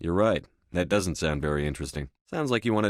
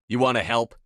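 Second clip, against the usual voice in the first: sharp order; 3 semitones higher, 5 dB louder than usual. Acted. Frustrated commander ordering an ally.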